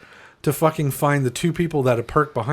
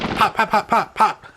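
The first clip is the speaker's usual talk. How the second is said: gunshot noises; 7 semitones higher than usual. Retold or imitated. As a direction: mimic quick pistol shots. Imitating gunshots in the air.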